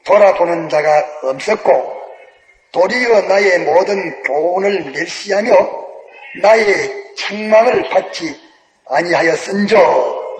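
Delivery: slow, measured Bible reading; solemn reading of the proverb; scripture reading. Acted. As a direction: read the verse out slowly and solemnly. Reads scripture slowly.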